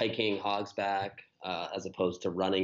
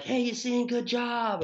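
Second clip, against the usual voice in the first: much higher, louder passing cheer; cheery runner; 14 semitones higher, 3 dB louder, slower than usual. Retold or imitated. Passing runners cheering him, imitated high and upbeat. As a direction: call out encouragement brightly.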